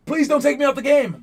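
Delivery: high, loud plea to the coach; pleading scream. Retold or imitated. Player screaming to the coach from the court. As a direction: beg the coach to keep you in.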